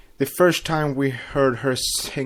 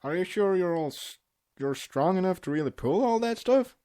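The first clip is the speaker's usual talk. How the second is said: higher, worried questioning voice; reading a cartoon dialogue scene; acted pony quote; 5 semitones higher than usual. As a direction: nag gently, pitched up. Reading Applejack quizzing Big Mac.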